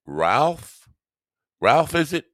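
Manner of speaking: high squeaky questioning; high mock surprise. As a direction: squeak out the name. Greeting chatter by odd name.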